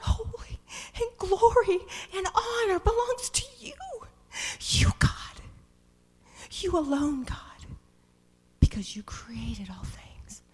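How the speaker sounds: high, ringing cry of praise. Acted. Preacher voicing the elders crying out in awe. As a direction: lift it up as an awed cry. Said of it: "they cry out".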